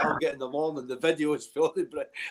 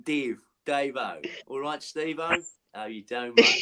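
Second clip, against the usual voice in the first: lightly imitated Australian accent. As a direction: put on a laid-back Australian greeting. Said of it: "It's like in Australian".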